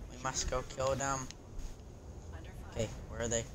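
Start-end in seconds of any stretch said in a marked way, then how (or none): 0.1-1.2 softer, muttered we must go kill them; quiet scheming repeat; soft take. Shown as a demonstration. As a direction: say it under the breath. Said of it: "repeated differently".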